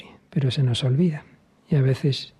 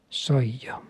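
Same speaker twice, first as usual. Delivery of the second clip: soft whispered reply; 4 dB quieter than usual. Acted. Voice at the intercom.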